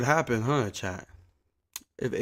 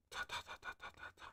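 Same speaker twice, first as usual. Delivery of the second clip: soft mouse-click ta sounds; 20 dB quieter, much faster than usual. Shown as a demonstration. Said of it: "more like".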